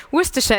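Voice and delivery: Worcestershire said as WUSS-ter-sher, three short syllables; British pronunciation. Shown as a demonstration. Speaker showing the audience the real British pronunciation. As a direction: say Worcestershire the local British way, WUSS-tuh-shuh. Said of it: "is how you say this".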